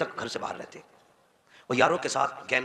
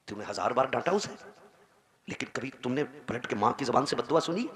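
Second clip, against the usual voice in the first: usual speaking voice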